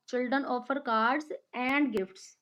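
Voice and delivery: "and" stressed, said slowly. Shown as a demonstration. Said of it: "So what will be there?".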